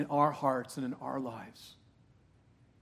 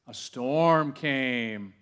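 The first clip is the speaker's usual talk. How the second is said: gasp, then very slow and louder; dramatic gasp; 5 dB louder, much slower than usual. Acted. Preacher dramatizes the storm story, gasp then slow dramatic reveal. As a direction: tell it like a thrilling shock for the congregation.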